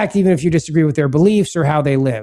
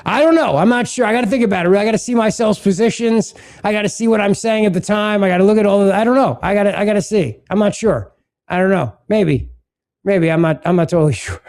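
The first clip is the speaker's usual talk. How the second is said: mock Gavin Newsom. Mocking the governor's dodge of whether he'd be a good president, hesitant and rambling. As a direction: shrug off the question like an evasive governor. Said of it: "you don't answer the question like this".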